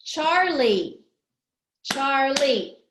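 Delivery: CHARLIE punched in two beats; syllable by syllable. Shown as a demonstration. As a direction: count out CHAR and LIE in CHARLIE. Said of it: "Charlie has two syllables".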